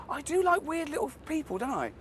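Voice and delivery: high, giggly self-mocking; laughing. Real, not acted. Joking about his odd co-stars while laughing. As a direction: giggle through it.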